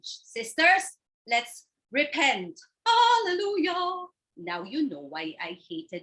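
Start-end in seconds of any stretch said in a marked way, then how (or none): 0.0-4.1 preachy sister. Acted. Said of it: "April the holy sister".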